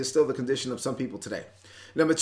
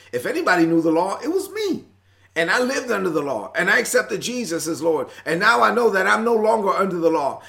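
exasperated, raised and higher, voicing Paul's disbelief; pushing each line up in frustration; frustrated Paul; 4 semitones higher than usual. Preacher voicing Paul, frustrated with the Galatians. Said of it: "he's frustrated".

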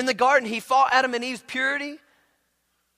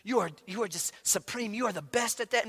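flattering praise; 3 semitones lower, 7 dB quieter than usual. Acted. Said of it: "somebody says".

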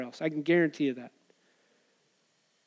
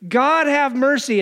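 higher, drawn-out plea for mercy; mild calling out; 5 semitones higher, 3 dB louder than usual. Acted. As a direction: call slowly for mercy, pitched up. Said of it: "calling out for mercy".

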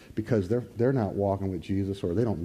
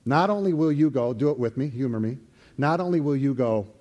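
normal talking voice

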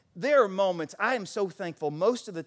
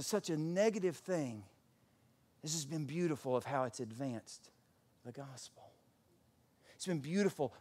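soft, lowered, unhurried voice; gentle reassurance; 3 semitones lower, 6 dB quieter than usual. Acted. Imprisoned Paul reassuring the worried church, gently. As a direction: quietly marvel at the good in it.

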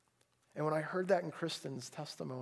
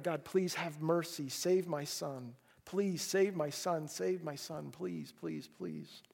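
slow pleading; slower than usual. Acted. David pleading for his son.

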